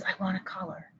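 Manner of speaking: put-on very soft child's request; really soft voice. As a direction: say it timidly quiet, as a child. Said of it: "in a really soft voice".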